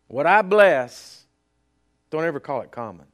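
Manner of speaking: booming voice of God. Retold or imitated. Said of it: "He says".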